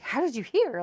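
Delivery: high, loud mock surprise; mock surprised dietitian. Mimicking the dietitian asking how she heard, mock surprised.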